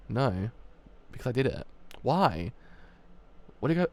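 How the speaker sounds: understated two-character reading with a hint of tension; a hint of a tired young gangster and a worried friend; lightly voiced dialogue. Reads both characters' dialogue.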